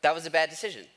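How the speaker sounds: chuckling through the words; laughing. Real, not acted. Pastor laughing at his childhood floss mishap, chuckling. Funny floss story punchline.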